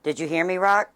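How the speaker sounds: loud, high holler; calling out. Real, not acted. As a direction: shout to check they heard. Calling to Rox off camera.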